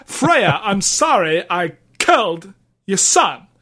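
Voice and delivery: actor impression with swooping emphasis; halting celebrity apology as Kratos; lightly put-on actor cadence; Christopher Walken. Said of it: "Christopher Walken doing his version of, uh, Kratos".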